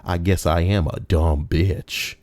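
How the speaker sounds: slow, deflated "I guess I am a dumb bitch"; grudging, defeated confession; resigned admission. Shown as a demonstration. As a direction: sigh it out like giving up. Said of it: "read it like that".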